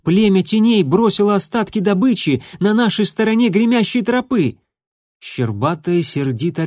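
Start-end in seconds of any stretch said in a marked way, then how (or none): 0.0-4.6 much higher and louder shout; a heated, high-pitched yell. Acted. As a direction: yell it in frustration. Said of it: "заорал Дымок".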